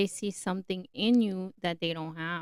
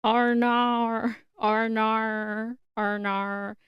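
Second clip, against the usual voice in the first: drawn-out Australian "oh no"; Australian accent; 4 dB louder, slower than usual. Acted. Podcaster playfully trying out an Australian "oh no", exaggerated Australian accent. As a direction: mimic an Australian, stretching the vowels. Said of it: "Oh my God, that's Australian".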